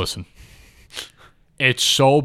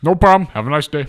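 sarcastic cheery sign-off, louder; fake polite; 3 semitones higher, 7 dB louder, faster than usual. Real, not acted. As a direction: brush him off with fake politeness. Mock polite brush-off.

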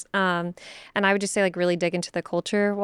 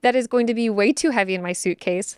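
dismayed inner voice; 2 semitones higher, 4 dB louder than usual. Retold or imitated. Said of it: "And I was like".

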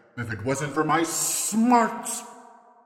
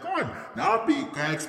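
Trump impression; 12 semitones higher than usual. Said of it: "in the form of a Donald Trump".

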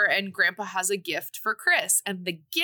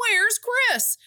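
calling out; 12 semitones higher, 5 dB louder than usual. Retold or imitated. Friends searching for Chris.

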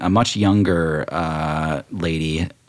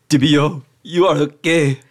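DM as the gnome greeting Tibio, a touch higher; gnome relative voice; 5 semitones higher than usual. Acted. A gnome greets long-lost Tibio, lightly voiced and higher.

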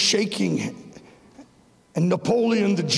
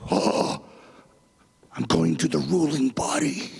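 lower, whispered wonder; awed whisper; 5 semitones lower than usual. Pretend. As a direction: whisper it like a secret revelation. Mock awed whisper on waking.

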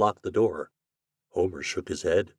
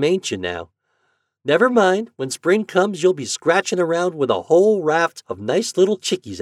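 put-on higher, louder farm boy talking to a pet; kindly farm boy, consoling; 7 semitones higher, 6 dB louder than usual. Homer to his lonely old turkey, consoling. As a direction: console the old bird in a lilting boy's voice.

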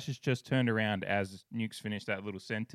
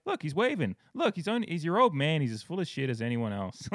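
Crash's line, pitched up and playful; quoting Crash; 4 semitones higher than usual. Retold or imitated. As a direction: deliver it like the catcher teasing. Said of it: "turns back and goes".

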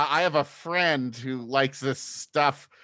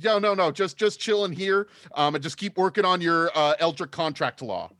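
Minotaur bro voice. Acted. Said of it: "that's my accent when I talk to Minotaurs".

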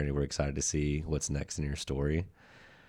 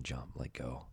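hushed soft urging; whispering; 2 semitones lower, 9 dB quieter than usual. Retold or imitated. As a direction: breathe it like an inner voice. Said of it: "of them is whispering".

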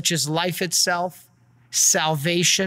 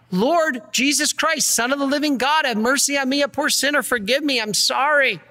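prayerful plea; 4 semitones higher than usual. Shown as a demonstration. Priest models daily confession prayer.

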